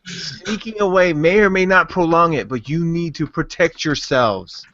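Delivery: put-on Shrek accent. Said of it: "Shrek has joined the show".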